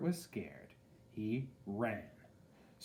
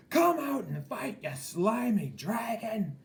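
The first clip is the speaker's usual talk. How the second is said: knight's challenge shout; 12 semitones higher, 7 dB louder than usual. A narrator's reading. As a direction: challenge the dragon to fight. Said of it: "shouted the knight".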